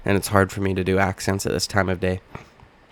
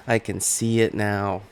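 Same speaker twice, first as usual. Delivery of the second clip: Conor McGregor impression; 3 dB quieter, slower than usual. Repeats line, second in Conor voice.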